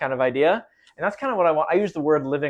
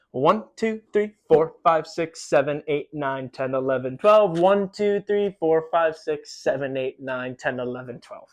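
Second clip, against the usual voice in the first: counting out loud; slower than usual. Shown as a demonstration. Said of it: "those two sets of twelve will look like this".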